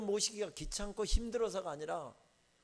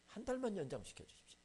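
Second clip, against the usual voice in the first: a softer second plea; quieter repeated plea; 3 semitones higher, 4 dB quieter than usual. Retold or imitated. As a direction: repeat it, falling back. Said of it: "하나님".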